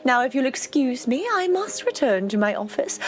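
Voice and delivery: a hint of a self-important mayor, sweetly welcoming; lightly voiced proud mayor. Mayor greeting the new postmaster, lightly pompous. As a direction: play the smug small-town mayor, lightly.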